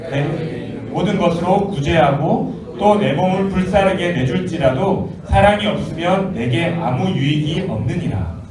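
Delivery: slow, measured recitation; scripture reading. Acted. Preacher leading youth in reading the verse, slow recitation. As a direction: read the verse out deliberately for all.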